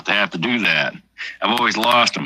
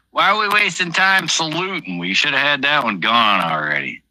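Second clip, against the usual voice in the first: lightly put-on Irish brogue, pitched higher at the start; a hint of an Irish accent at a toast; mock Irish accent; 7 semitones higher than usual. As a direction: imitate an Irish drinker hurrying the toast. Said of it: "In, in an Irish accent".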